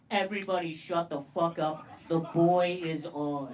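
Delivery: loud mock yell at the fellas; yelling at the room. Hushing his friends loudly because Biden is on TV.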